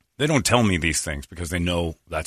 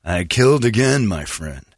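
Jack Nicholson-style voice; slower than usual. Retold or imitated. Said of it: "sounded like Jack Nicholson".

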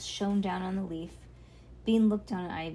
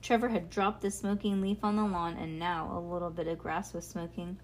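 ordinary delivery, nothing marked

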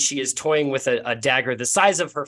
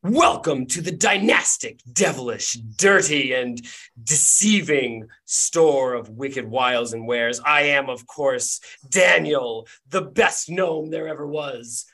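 grand, drawn-out gnome shopkeeper patter; showman gnome; slower than usual. Acted. Gnome shopkeeper greets adventurers, grand showman welcome. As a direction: punch the adjectives like a stage barker. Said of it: "a bearded gnome leaps onto a stool".

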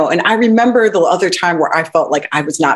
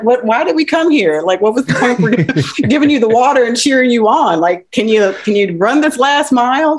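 higher, incredulous mock complaint; exasperated crowd; 7 semitones higher than usual. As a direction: ham up the baffled cheering crowd. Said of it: "people would be like".

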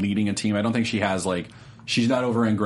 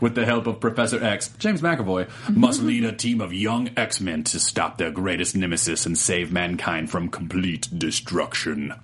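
low, dramatic trailer narration with a few laughing breaks; movie trailer voice; 3 semitones lower than usual. Shown as a demonstration. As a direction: read it like an epic movie trailer, lower and weighty. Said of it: "should I read it in movie trailer voice?".

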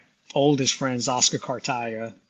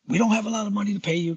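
a drummer's voice; 8 semitones higher, much faster than usual. Retold or imitated. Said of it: "I'm gonna do it in the voice of Butch Trucks".

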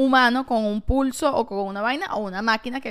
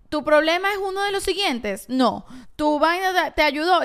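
chatbot voice; 4 semitones higher than usual. Retold or imitated. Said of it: "que tú escribes y te dicen".

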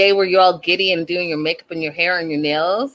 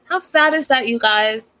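exclaimed; 3 semitones higher than usual. Real, not acted. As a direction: throw the question out to the viewers.

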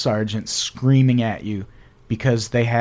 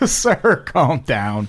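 lightly laughing at an angry customer; retold amusement; much slower than usual. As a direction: laugh first, then soothe the irate caller. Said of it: "I used to laugh".

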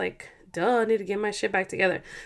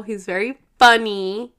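louder burst on funny; said really loud; 6 dB louder than usual. Real, not acted. Praising her husband to viewers, suddenly loud. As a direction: blurt it out loud. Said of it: "I don't know why I just said that really loud".

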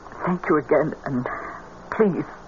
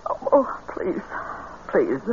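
whispered please; 6 semitones lower, 6 dB quieter than usual. Acted. Mother whispers after rebuke.

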